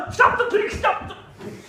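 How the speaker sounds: high, loud call to stop the pigs; shouting. Retold or imitated. Man yelling after his runaway pigs, loud and high. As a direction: yell it out after the fleeing pigs.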